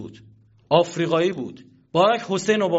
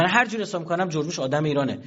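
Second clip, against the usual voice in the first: mocking; faster than usual.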